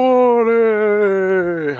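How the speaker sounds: slow, drawn-out spooky wail; ghost voice. Acted. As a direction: moan it like a ghost. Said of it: "I'm a ghost".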